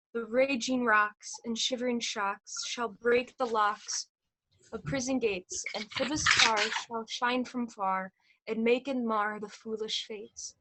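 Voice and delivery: slow, lofty ranting tyrant; Ercles' vein. Acted. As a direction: declaim it like a stage tyrant, slowly. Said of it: "This is Ercles' vein, a tyrant's vein".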